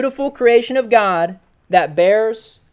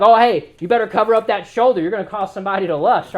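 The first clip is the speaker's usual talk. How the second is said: mocking preachy warning; 2 semitones lower, 3 dB louder than usual. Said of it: "I've made jokes about it before".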